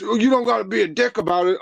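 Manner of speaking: high, put-upon mock whine of the fire chief; whiny complaint. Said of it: "and he's".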